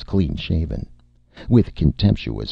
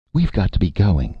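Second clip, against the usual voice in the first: higher-pitched, urgent desperation; desperate; 5 semitones higher, 4 dB louder than usual. A narrator's reading. Erica trying to hurry Martin off, desperately. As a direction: cut in desperately to get away. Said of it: "Erica said desperately".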